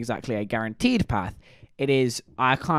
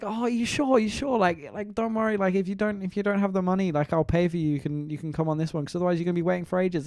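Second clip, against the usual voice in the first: put-on kind old lady; 5 semitones higher than usual. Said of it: "And she was like".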